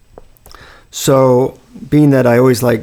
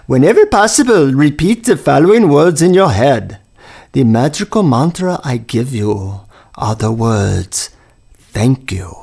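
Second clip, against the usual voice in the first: put-on Indian accent. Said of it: "he's whispering".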